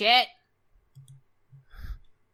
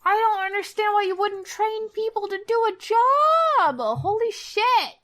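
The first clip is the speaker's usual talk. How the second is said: higher, worked-up disbelief; exasperated rant; 10 semitones higher than usual. Real, not acted. Co-host venting about untrained coworkers, worked-up and high. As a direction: vent about it, pitched up.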